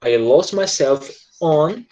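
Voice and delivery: each word slow and separate; slow model sentence. Shown as a demonstration. Teacher showing students the sentence slowly. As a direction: lay it out slowly for the class. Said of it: "você pode colocar on".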